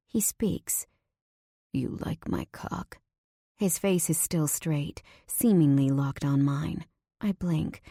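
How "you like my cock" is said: low whisper. Acted. He speaks to watching woman.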